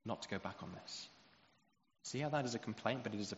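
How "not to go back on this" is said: quiet trusting plea. Acted. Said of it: "Holding it up in his face and saying".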